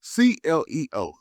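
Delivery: spelled out slow and loud; loud spelling. Pretend. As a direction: belt each letter from the chest. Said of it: "Say it with your chest".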